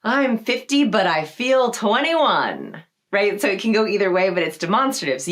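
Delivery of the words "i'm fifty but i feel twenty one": put-on perky young energy. Shown as a demonstration. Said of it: "you can be like".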